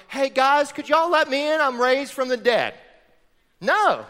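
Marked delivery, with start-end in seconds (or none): 0.1-2.7 lightly voiced, meek plea at the door; timid knocking Jesus. Jesus knocking outside the locked door, mock sheepish plea. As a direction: play a polite guest asking to be let in. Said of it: "isn't on the outside of the door knocking, going".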